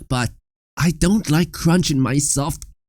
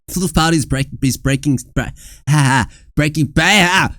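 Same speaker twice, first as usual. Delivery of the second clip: tongue-tied laughing; 2 semitones lower than usual. Real, not acted. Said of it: "I can't speak!".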